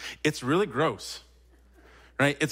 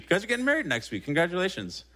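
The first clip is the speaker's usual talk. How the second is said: excited announcement; 6 semitones higher, faster than usual. Real, not acted. Announcing couple's wedding to congregation.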